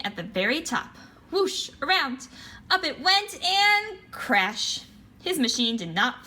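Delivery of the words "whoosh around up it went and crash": rising higher word by word to the crash; excited. A narrator's reading. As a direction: build it like a launch. Sound words of flight.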